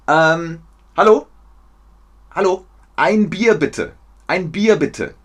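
high, loud pretend bar order; calling the waiter. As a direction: hail the waiter over the noise. Acts calling a waiter for beer. (lautes, hohes Rufen nach der Bedienung)

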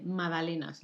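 MAGDALENAS said as "madalenas", falling at the end; silent G. Shown as a demonstration. Likening it to the name, magdalenas with a silent G. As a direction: leave out the G in MAGDALENAS. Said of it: "La G no se pronuncia".

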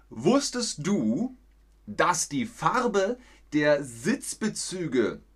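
slowly, each word spelled out for learners; slow, clear question. Shown as a demonstration. Teacher asking the chat slowly and carefully, slow clear reading. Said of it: "Jetzt müsst ihr mit einem ganzen Satz antworten".

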